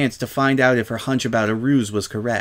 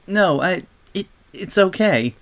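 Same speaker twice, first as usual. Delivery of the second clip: high, halting acted sob; sobbing; 8 semitones higher than usual. A narrator's reading. Silver Spoon reassures the Crusaders, mildly sobbing. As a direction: stammer through tears, pitched up. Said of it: "she sobbed".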